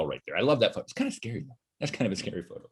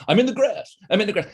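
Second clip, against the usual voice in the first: mock silly user; 6 semitones higher than usual. Mocking a grass background user.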